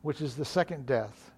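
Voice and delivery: measured, understated Bible reading; solemn lectern reading, falling softly at verse ends; scripture reading. Real, not acted. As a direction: read scripture aloud evenly and quietly.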